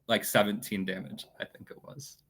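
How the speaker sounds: casual, trailing off very softly; understated, falling away almost to nothing; nonchalant. Real, not acted. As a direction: toss it off as an afterthought. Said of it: "you say it so nonchalantly".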